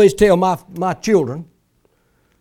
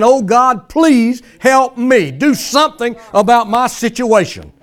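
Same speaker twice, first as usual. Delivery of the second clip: higher, drawn-out mock plea; hammed-up begging, pitched up; mock pleading; 5 semitones higher than usual. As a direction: imitate a bawling prayer for help. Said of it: "crying and bawling and squalling and pleading".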